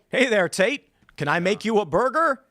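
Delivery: fake-friendly service voice; cheery robot. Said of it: "it's gonna go".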